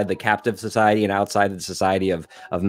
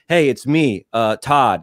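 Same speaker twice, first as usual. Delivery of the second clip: mock Kyle Mooney dude; 3 semitones higher, 4 dB louder, slower than usual. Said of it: "that cadence".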